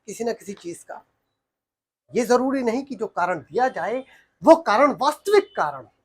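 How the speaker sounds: theatrical soliloquy with long, weighted pauses; dramatic monologue. Acted. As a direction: perform it as a stage monologue. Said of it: "ये एक monologue". (नाटकीय monologue, ठहराव के साथ)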